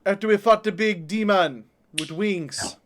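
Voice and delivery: in-character British street voice; in-character recap, British accent; accented player character. Acted. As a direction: play the adventurer recalling the fight.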